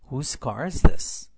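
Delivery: slow loud model. Shown as a demonstration. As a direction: call it out slowly to the class. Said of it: "به این جمله توجه کنید".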